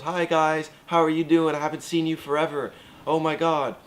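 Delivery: high, bubbly gushing greeting; squealy valley-girl hello; excited girl. Retold or imitated. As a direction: gush like an overexcited old acquaintance. Samantha voiced, high excited.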